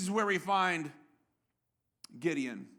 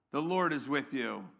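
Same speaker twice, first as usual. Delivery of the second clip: low, softer solemn pronouncement; angel's solemn assurance; 8 semitones lower, 5 dB quieter than usual. Acted. Angel of the Lord assures Gideon, low and solemn. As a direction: drop down low and reassure him. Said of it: "the angel of the Lord appears to him and says".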